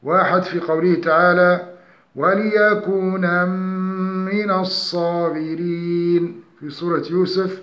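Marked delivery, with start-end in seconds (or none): 2.1-6.4 slow melodic tajweed chant; Quranic recitation. Shown as a demonstration. Tajweed teacher reciting an example verse slowly.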